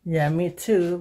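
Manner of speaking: ordinary talk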